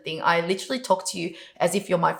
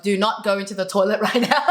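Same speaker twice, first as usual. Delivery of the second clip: laughing. Real, not acted. Laughing while telling toilet warning.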